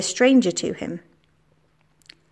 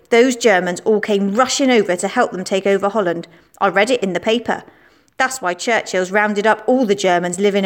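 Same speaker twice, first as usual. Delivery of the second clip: a hint of a cocky boy, a little louder; lightly voiced boastful schoolboy; 3 dB louder than usual. Schoolboy Billy accusing Anna in the playground, cocky. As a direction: play the know-it-all lad spreading rumours.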